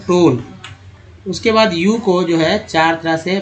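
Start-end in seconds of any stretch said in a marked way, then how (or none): 0.0-0.4 टोन with a clear long "oh"; long o demo. Shown as a demonstration. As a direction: model टोन as "tohn". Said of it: "ओ टोन में ओ को ओ पढ़ते हैं".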